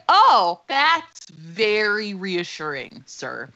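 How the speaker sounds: sarcastic, leaping up then dragging slowly and fading; drawn-out deadpan sarcasm; mock thanks, slow and sinking. Sarcastic reply to pest man.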